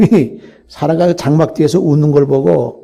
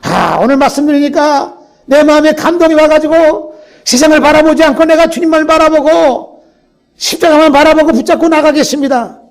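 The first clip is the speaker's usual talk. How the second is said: fervent prayer; 3 semitones higher, 3 dB louder than usual. Retold or imitated. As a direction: pour out a vow to God, building up. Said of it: "우리가 기도할 때". (점점 고조되는 간절한 기도)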